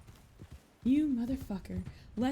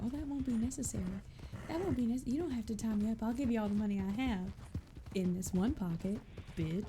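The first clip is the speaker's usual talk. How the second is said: mock innocent; 2 semitones higher, faster than usual. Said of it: "I absolutely mind game the fuck out of him".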